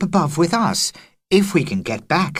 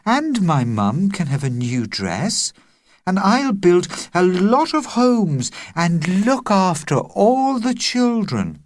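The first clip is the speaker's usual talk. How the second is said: dreamy murmur; 9 semitones higher than usual. A narrator's reading. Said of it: "murmured Agnes dreamily".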